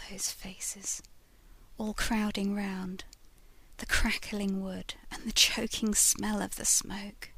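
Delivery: hushed, breathy ghost woman confiding her fate; soft whispered ghost voice; ghostly lady whispering. Acted. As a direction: whisper it like a spirit from a picture frame. Lady tells her tale.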